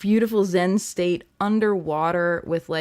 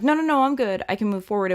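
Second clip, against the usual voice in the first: higher, hurried no-no-no of denial; mock brushing it off; 4 semitones higher, 5 dB louder, faster than usual. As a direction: insist you're fine, a bit too quickly. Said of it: "instead of being like".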